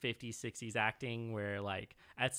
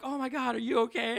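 high, loud mock fussing over a fallen man; fretting heroine; 11 semitones higher, 6 dB louder than usual. Podcaster mocking the heroine rushing to Tuck, high fretful voice. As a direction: play the heroine gushing over him, pitched way up. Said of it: "she runs to fucking Tuck".

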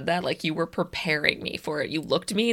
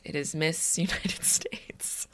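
whispering; 3 semitones lower, 10 dB quieter, slower than usual. Pretend. Whispered punchline.

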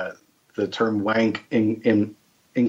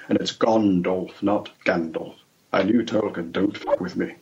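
lightly lowered, measured English actor voice; Christopher Lee impression; 2 semitones lower than usual. Old actor correcting Tolkien names, lightly voiced grand impression. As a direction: pedantic and deliberate, in an old actor's register. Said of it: "sounds sort of like Christopher Lee".

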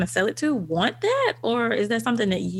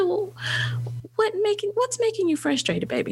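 put-on mother to toddler; 12 semitones higher than usual. Mother answering toddler in story.

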